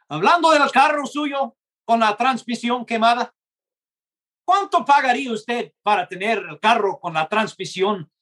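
normal talking voice

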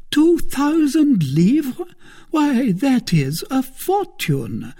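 high, loud and slow, aghast at the sum; shocked cry. Acted. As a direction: let the number horrify her. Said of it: "cried she".

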